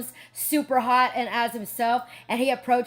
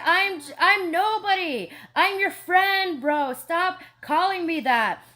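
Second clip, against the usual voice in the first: higher, slow, insistent denial; insisting modestly; 5 semitones higher, slower than usual. Retold or imitated. The speaker telling the janitor she's nobody, slow and higher. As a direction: plead it down, slowly and higher. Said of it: "And I'm like".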